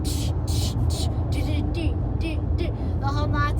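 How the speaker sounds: beatboxing the thumping bass; imitating party music. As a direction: mimic muffled club music through walls. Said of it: "my hotel room was going".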